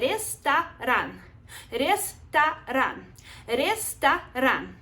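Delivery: slow, careful ресторан with a single t; ресторан, said slowly syllable by syllable; careful drill. Shown as a demonstration. Teacher drills ресторан slowly for the class. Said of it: "let's be careful when we say it".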